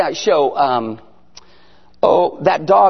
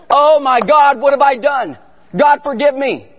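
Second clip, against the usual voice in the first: mock panicked prayer; 4 semitones higher than usual. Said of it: "So I'm freaking out".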